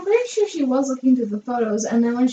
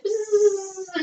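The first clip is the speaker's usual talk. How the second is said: higher-pitched buzzing hum; imitated fly buzz; 8 semitones higher than usual. Friend recounting a movie scene, buzzing like the fly. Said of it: "that fly is like".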